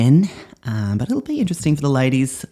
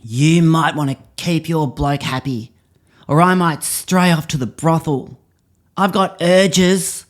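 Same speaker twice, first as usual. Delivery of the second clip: mock angry bloke; 5 semitones higher than usual. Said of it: "you get angry and you go".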